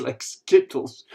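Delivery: breaking into laughter while reading; real laugh through the words; amused laughter. Real, not acted. Amused while reading viewer's comment.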